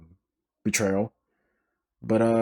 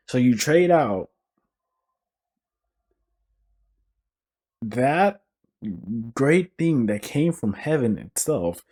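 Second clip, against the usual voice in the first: dramatic lament; 5 semitones higher than usual. Pretend. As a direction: wail at Panera like a betrayed fan. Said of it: "Now that we're done with the dramatic stuff".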